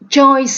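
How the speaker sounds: "Choice" with a clear initial CH; CH sound. Shown as a demonstration. Teacher modelling choice for learners, CH sound. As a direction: say "Choice" slowly, starting on CH. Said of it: "âm chờ".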